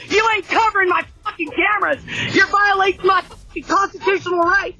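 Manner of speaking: swearing tirade. Real, not acted. Homeowner yells at cop.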